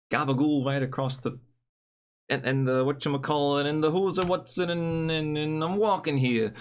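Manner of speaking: hammed-up mock Italian-American accent; bad Italian accent. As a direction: stammer and bluster in a badly faked Italian accent. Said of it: "suddenly bad Italian accent stream".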